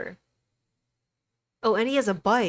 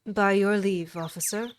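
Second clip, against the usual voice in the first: normal talking voice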